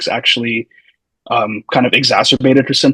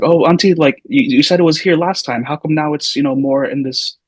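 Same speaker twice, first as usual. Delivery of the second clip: retold question, pitched up at first; puzzled questioning; 3 semitones higher than usual. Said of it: "I remember I was like".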